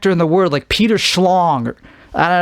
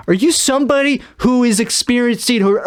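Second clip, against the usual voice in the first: careful clinical question; 7 semitones higher than usual. Acted. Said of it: "You would say".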